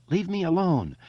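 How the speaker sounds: high, frightened plea; trembling voice. A narrator's reading. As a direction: plead like a scared boy. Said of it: "Eddie said in a trembling voice".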